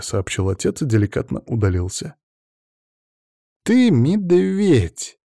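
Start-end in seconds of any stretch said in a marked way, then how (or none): 3.6-5.2 very slow, held-back growl; a choked, half-playful snarl; muffled growl. Acted. Natasha to Raf, fist against his chest: slow, muffled mock growl. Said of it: "прорычала она сдавленно".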